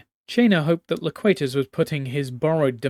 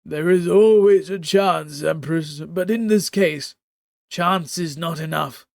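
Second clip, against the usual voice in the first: grave mystic; 2 semitones higher, 4 dB louder than usual. Acted. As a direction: pronounce the odds like a seer. Mystic answers empress gravely.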